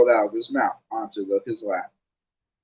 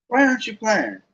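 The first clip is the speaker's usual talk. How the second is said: higher, puzzled question; puzzled Ron; 9 semitones higher than usual. Acted. Ron asks Harry why he isn't playing, puzzled. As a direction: ask in confusion. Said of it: "Ron asked Harry".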